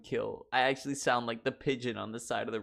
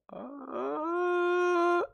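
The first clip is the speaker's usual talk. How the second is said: breaking high note; 5 dB louder than usual. Pretend. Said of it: "my voice just keeps breaking".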